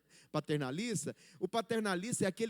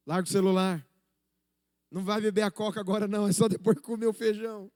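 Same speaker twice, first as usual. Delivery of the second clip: scolding parent; 6 dB louder than usual. Retold or imitated. Parent scolding child at table.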